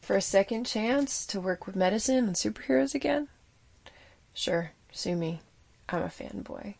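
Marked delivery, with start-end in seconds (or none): 4.3-6.7 whispered aside. Acted.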